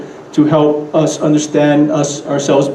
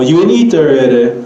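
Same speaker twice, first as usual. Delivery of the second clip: "eat" up, "already" down; Pidgin question intonation. Shown as a demonstration. Teacher offering another Pidgin example, falling on "already". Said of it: "it rises and then drops at the end".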